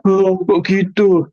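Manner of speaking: high, slow surprised question; puzzled and taken aback. Retold or imitated. Client surprised that crying costs money, high. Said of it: "Terus dia bilang".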